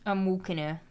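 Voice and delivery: put-on American accent; lightly done American accent; American accent movie quote. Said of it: "loves an American accent when she's quoting".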